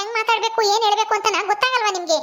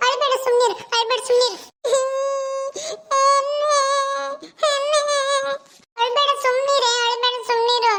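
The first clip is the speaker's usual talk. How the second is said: higher, coaxing hush; soothing plea; 4 semitones higher than usual. Acted. Brother begs his hurt little sister not to cry, soothing. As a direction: hush a crying child, lightly acted.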